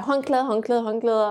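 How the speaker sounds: urgent call. Retold or imitated. Midwife calling out for towels.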